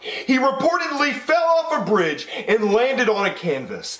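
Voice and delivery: TV newscaster delivering breaking news; news anchor. Acted. TV anchor announcing a famous painter's death, newsreader delivery.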